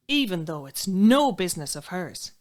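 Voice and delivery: loud, indignant stress on "no"; gossip's emphatic aside. Acted. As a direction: hit "no" hard and loud, mildly outraged. Indignant repeat after the outcry.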